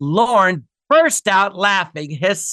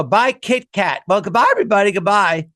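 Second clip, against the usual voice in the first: raised, showy idiot-boss voice; idiot tycoon; 3 semitones higher than usual. Retold or imitated. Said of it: "he was an idiot".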